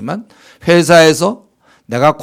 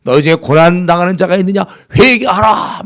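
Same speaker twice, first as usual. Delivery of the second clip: louder, sharper preacher's scolding; mock stern rebuke; 2 semitones higher, 4 dB louder than usual. Shown as a demonstration. Preacher mimicking churches that scold sufferers, sternly. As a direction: demands repentance like a harsh judge. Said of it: "우리 한국 교회가 좀 배워야 된다".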